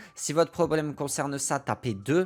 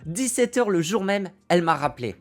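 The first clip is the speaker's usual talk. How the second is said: excited reveal; 5 semitones higher, 4 dB louder than usual. Retold or imitated. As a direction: hit the big turn of the story with amazement. Reveals the amazing same-day callback.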